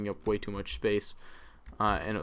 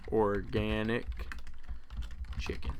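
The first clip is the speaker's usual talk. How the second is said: slow, chuckling through the word organic; laughing; 4 dB quieter, slower than usual. Real, not acted. Rereads the name, amused.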